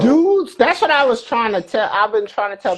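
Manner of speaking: loud, high "dudes"; excited. Real, not acted. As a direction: burst out in eager agreement. Excited agreement.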